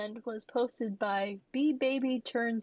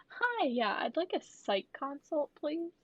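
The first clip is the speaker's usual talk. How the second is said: higher, put-on caller voice; mock phone request; 5 semitones higher than usual. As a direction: politely fake a call to the hospital. Acts out calling for psych consult.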